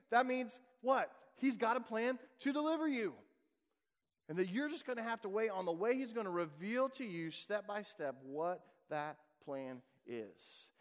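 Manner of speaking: ordinary talk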